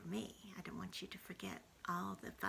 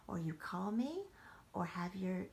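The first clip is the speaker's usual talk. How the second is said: hushed message to grandchildren; whispered goodbye. Real, not acted. Grandmother whispering goodnight to the grandchildren.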